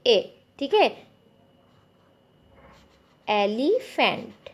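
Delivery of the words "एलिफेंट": slow, drawn out. Shown as a demonstration. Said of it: "slow drawn-out word".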